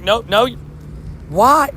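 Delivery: mock whine. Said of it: "It's like".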